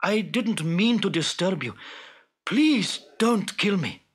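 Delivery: understated frightened plea; mildly pleading fisherman. Acted. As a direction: beg gently for your life. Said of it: "pleaded Abdullah".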